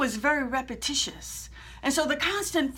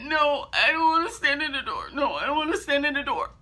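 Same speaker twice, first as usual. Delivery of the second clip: scared refusal. Retold or imitated. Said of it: "I was scared, nervous, and afraid".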